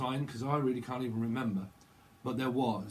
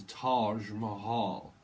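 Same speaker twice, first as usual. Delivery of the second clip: mock posh English, stretched out slowly; posh accent; 4 semitones lower, much slower than usual. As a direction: put on a posh drawl. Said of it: "Someone posh".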